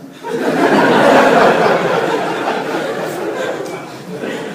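high, airy burst of laughter; hearty laugh. Real, not acted. Pastor laughs at his own bedtime joke.

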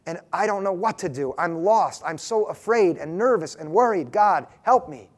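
a worried parent's prayer, lightly voiced; sample prayer. Shown as a demonstration. Preacher modelling a parent's prayer, a touch of anguish. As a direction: confess fear for your children, mildly pleading. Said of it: "It looks like this".

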